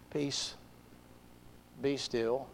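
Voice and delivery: very soft, low, spaced-out words; hushed calming command. Acted. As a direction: still the storm almost under your breath. Jesus calms the storm.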